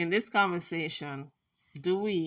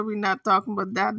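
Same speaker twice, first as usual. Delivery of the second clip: insistent refusal; 5 dB louder, faster than usual. Retold or imitated. Retelling her repeated refusal, hurried.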